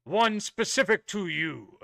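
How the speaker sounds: a hint of a stern royal knight; booming warrior king. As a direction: address recruits with solemn authority. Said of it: "very kind of stern royal voice".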